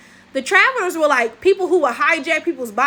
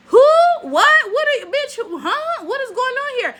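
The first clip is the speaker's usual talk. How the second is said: high-pitched, baffled questioning; mock bewildered onlookers; 10 semitones higher, 4 dB louder than usual. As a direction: imitate people squeaking in confusion at a stranger. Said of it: "they'll be like".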